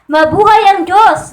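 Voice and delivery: joyful proclamation, slowed down; shouted praise. Shown as a demonstration. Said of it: "Ganun ang mga isigaw mo".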